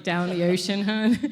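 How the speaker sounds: Baltimore accent, "ocean" with the O's dropped; broad Baltimore "down the ocean, hun". Shown as a demonstration. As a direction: Baltimore local calling someone hun, in Baltimore accent. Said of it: "Just kinda drop those O's".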